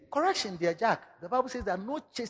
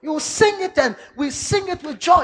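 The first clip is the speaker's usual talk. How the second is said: louder, higher insistence; playful louder insistence; insisting; 8 semitones higher, 9 dB louder than usual. Acted. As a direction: demand it with a laugh. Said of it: "my church in my announce say".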